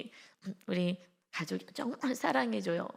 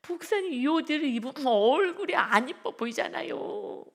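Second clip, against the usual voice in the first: a little higher, earnest plea; light young woman voice; 4 semitones higher, 5 dB louder than usual. Retold or imitated. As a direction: coax him gently about the clothes. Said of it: "막 이래요". (살짝 높게 조르는 자매 말투)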